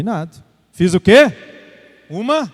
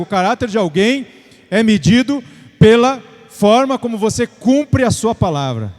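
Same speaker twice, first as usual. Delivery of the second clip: emphatic, raised preacher's delivery; preaching; 4 semitones higher, 3 dB louder than usual. Real, not acted. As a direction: exhort the congregation with driving repetition. Preaches exhortation after the story. (pregação enfática, exortando a igreja)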